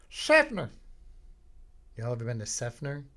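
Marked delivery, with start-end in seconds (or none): 0.1-0.7 high, loud redneck shout of the town name; redneck twang. Shown as a demonstration. Comic showing how Seffner sounds, redneck holler. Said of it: "a very redneck sounding town".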